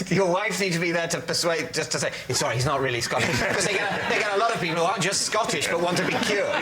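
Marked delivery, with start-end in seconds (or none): 2.3-3.3 mock apology. Wife's imagined apology, through laughter.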